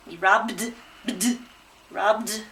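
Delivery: "robbed" with the final bd sounded out; teacher's careful "robbed", voiced d released; voiced d ending. Shown as a demonstration. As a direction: isolate "bd", then say "robbed" with a clear d. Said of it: "Hear that d?".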